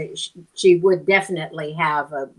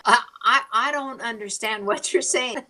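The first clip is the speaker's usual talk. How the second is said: higher-pitched, retold bewilderment; baffled; 6 semitones higher than usual. Newcomer answering gas station man, baffled. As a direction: stammer into it, politely lost.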